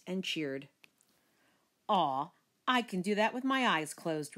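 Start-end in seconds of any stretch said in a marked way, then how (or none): 1.9-4.4 mild croaky brotherly scoff; lightly voiced bragging brother; croaked boast. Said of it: "Richie croaked".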